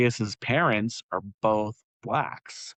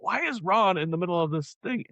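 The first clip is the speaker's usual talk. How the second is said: confused surprise; 8 semitones higher than usual. Retold or imitated. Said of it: "I'm like".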